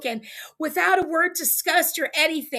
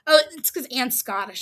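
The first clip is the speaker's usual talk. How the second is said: ordinary delivery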